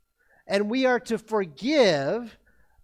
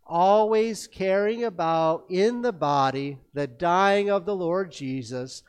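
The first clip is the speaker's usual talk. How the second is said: scripture reading; 2 semitones lower, slower than usual. Acted. Congregation verse recital together.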